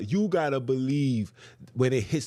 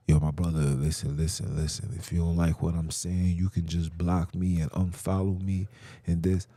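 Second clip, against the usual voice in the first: lower, even voice for the quoted brother; retold brother; 5 semitones lower than usual. Brother telling him to unfollow, low-voiced retelling. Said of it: "and he also said".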